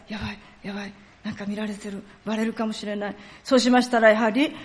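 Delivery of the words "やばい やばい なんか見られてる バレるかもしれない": anxious inner voice. Acted. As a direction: think aloud softly, afraid of being found out. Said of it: "大変怖かったでしょうね". (不安げに小声で心の声)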